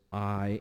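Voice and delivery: "I" held long and weighted; drawn-out stress on I; emphatic. Retold or imitated. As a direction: lean slowly on the word I.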